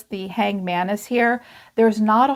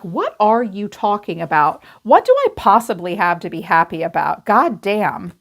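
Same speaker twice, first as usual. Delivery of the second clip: despairing rant. Retold or imitated. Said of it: "this person is like".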